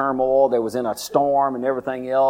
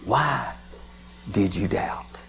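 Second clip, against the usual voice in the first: soft whisper; Jesus gently asking Peter, whispered; gentle question; 3 semitones lower, 6 dB quieter, much slower than usual. Acted. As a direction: ask it tenderly, almost breathless.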